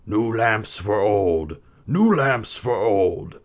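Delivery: slow drawn-out peddler's cry; street vendor call. A narrator's reading. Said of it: "calling out the strangest thing".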